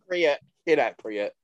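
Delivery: "Accurate, inaccurate" garbled as "ack-ree-it, in-ack-ree-it"; echoing the fluffed "inaccurate"; mispronunciation. Retold or imitated. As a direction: swap the sounds in "Accurate". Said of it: "Accurate comes out sometimes".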